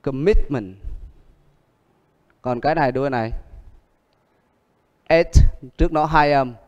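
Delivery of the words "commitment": Commitment with stress on MIT; com-MIT-ment, middle syllable strongest; stress on second syllable. Shown as a demonstration. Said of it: "Nó nhấn âm hai".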